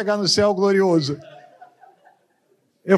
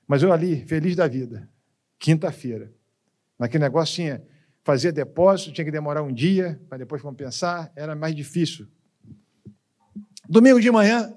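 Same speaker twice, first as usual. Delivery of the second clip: ordinary delivery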